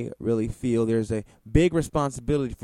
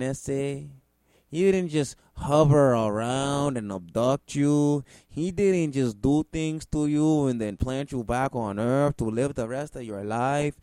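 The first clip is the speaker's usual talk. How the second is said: exaggerated Mexican accent, emphatic; 3 semitones higher than usual. Real, not acted. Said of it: "I use my Mexican accent".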